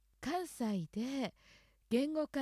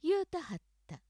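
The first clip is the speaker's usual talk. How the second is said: 言うたはった in Kyoto accent, pitch set high; 京都アクセントで言うたはった; 5 semitones higher, 4 dB louder than usual. Shown as a demonstration. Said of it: "京都アクセントだと、".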